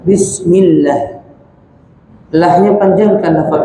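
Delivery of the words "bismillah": Bismillah with a light thin lam, slowly. Shown as a demonstration. (lam tipis pada Bismillah)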